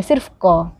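क said as a plain ka, with no dot sound; क as in कमल, a plain k. Shown as a demonstration. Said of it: "जिसका pronunciation होता है".

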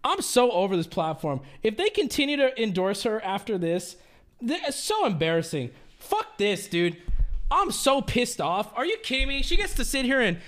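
outraged rant. Acted. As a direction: vent like you can't believe it. Outraged rant about streamer.

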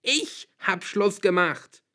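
high, loud, slow scream; yelling back. A narrator's reading. Girl yells back at father while packing, screaming. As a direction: bellow it back word by word. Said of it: "brüllte ich zurück".

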